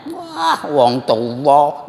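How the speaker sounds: drawn-out, dismissive mimicry of the reply; slow, exaggerated comeback; acted retort. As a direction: stretch the words slowly in a mock retort. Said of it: "Apa katanya?".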